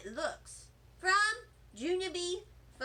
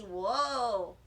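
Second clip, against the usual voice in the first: lightly voiced friend; 6 semitones lower than usual. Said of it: "said my other friend Jose".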